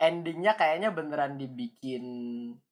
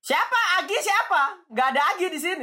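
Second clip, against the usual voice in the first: high, loud surprised question; sudden baffled outcry; 12 semitones higher, 5 dB louder than usual. Real, not acted. Mock confusion over missing person.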